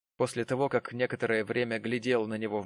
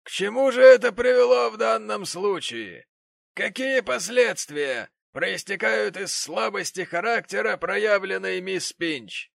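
pompous offended father; 9 semitones higher, 6 dB louder than usual. Acted. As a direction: hold forth with outraged dignity. The gentleman's long grievance.

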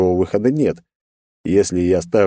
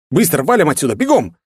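urgent shout; 8 semitones higher, 4 dB louder than usual. Acted. Hero urges escape before blast.

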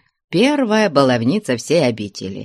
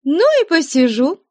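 much higher, cheeky retort; pert retort; 14 semitones higher than usual. Acted. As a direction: shrug it off saucily. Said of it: "бойко отвечала Марья".

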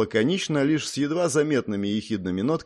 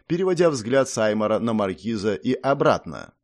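ordinary delivery, nothing marked

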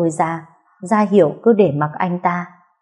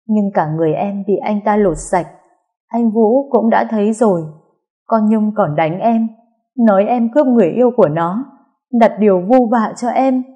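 higher-voiced, mildly distressed account; distressed complaint; 3 semitones higher than usual. Younger sister telling what was done to her, upset and higher. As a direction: pour out the hurt to big sister. Crying girl recounts her attack.

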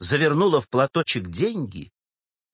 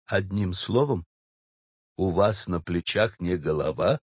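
low, restrained bass clerk; exasperated clerk; 7 semitones lower, 4 dB quieter than usual. Acted. Clerk lectures the old woman, exasperated. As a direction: contain your exasperation, pitched low.

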